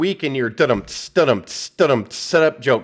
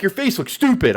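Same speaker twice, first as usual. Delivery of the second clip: mock Edge taunt; 6 semitones higher than usual. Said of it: "when Edge is like".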